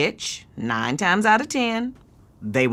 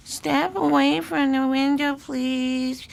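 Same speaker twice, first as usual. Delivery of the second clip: slow, measured window-clerk command; firm clerk demo; 3 semitones higher, slower than usual. Shown as a demonstration. Aunt demonstrating front desk command to niece, firm. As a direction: show her how to order them back. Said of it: "I'm the visitor coming to the window. Here's you".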